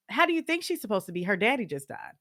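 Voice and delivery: quick, sharp comeback; a hot defensive snap; snapped retort. Retold or imitated. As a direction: fire it back fast and indignant. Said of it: "it came out so quick".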